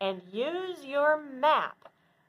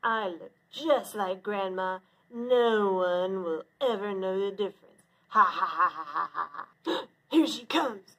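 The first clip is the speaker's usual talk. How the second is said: lower, hushed scheming wolf, ending in a gloating chuckle; sly wolf; 3 semitones lower than usual. Acted. Wolf plots in disguise.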